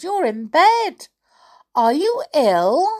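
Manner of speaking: put-on high, loud child voice; high-pitched storybook girl; concerned little girl. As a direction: ask as a worried granddaughter. Girl questions granny.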